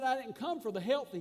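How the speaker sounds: sarcastic. Retold or imitated. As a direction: quote it with a sarcastic edge. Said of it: "He was being sarcastic".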